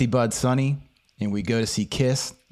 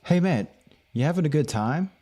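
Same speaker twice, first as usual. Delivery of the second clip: lightly acted, slightly higher question; retold friendly check-in; 3 semitones higher than usual. Stranger checking on him at a gathering, lightly acted friendly question. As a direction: imitate someone casually checking in. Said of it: "They were like".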